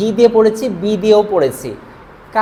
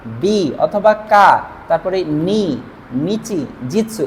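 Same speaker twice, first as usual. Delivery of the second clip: slow listing; 2 semitones lower, much slower than usual. Shown as a demonstration. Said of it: "এই হি শব্দটাকে".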